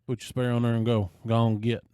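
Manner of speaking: mock sheriff waving him off, hurried; retold shooing.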